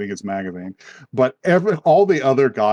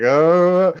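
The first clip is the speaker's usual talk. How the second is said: louder, higher sulky "uh"; mopey groan; 5 semitones higher, 5 dB louder than usual. Retold or imitated. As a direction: groan like you're moping. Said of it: "goes on to mope some more".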